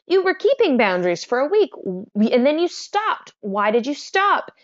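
mild mock exasperation, lightly acted; mildly frustrated therapist. Therapist questioning a client who dropped boundaries, mildly frustrated.

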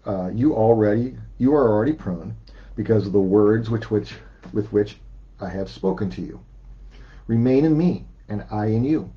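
measured, deliberate Bible reading; scripture reading. Acted. Pastor reading John to the congregation, measured and deliberate. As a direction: read the verses out steadily for the church. Reads John fifteen aloud.

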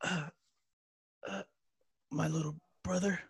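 deliberately wooden line read; bad acting. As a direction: ham up a dramatic line badly. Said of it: "excuse my acting 'cause it's horrible".

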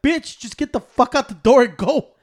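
loud, slow, impatient mock order; acted-out fed-up command; exasperated order. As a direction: push each word out, fed up.

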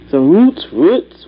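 roots said with a drawn, round vowel, like rūts; own accent. Shown as a demonstration. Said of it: "There's my accent".

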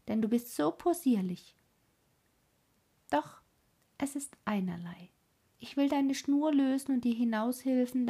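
put-on brash and bossy like a wild child; lightly voiced cheeky robber girl; bold robber girl. Robber girl teases the reindeer.

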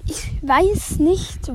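whispering. Real, not acted. Unsure musing.

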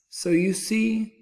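high, slow, loud brag; bragging. A narrator's reading. Rabbit claiming victory over the bear, bragging. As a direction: draw it out triumphantly. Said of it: "bragged the rabbit".

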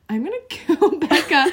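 laughing high and loud through a mock threat; giggling fake fury at a friend; mock murderous laugh. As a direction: fake rage dissolving into laughter. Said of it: "and I'm like".

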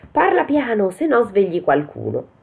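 high urgent hushing, falling at the end; alarmed thief. Acted. Ladri zittiscono Pollicino. (ladro allarmato, tono acuto)

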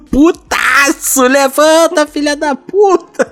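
high squawking rooster crowing at dawn. Retold or imitated. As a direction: crow it out like a rooster. Rooster waking you at dawn. (galo cantando de madrugada)

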